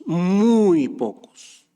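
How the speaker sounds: breathy whisper of muy pocos; hushed repeat; whispered echo. Real, not acted.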